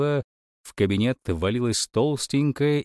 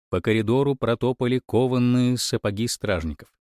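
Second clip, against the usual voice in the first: usual speaking voice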